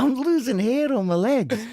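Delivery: high, loud disbelieving wail; exasperated. Real, not acted. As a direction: cry out in dismay.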